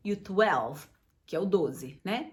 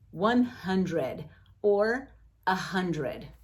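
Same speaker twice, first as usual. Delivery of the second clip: slow model read; 2 semitones lower, much slower than usual. Shown as a demonstration. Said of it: "que é a mesma coisa".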